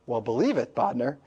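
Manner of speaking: deadpan retort, imitated; straight-faced teacher. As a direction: play the unmoved teacher, lips pursed. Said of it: "never cracking another face except his little pursed lips".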